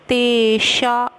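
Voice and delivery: तेषा with the ष made far back, slow; retroflex ष. Shown as a demonstration. Teacher showing students the ष sound in तेषा. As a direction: curl the tongue for ष in तेषा. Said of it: "जौ को थोड़ा सा आगे".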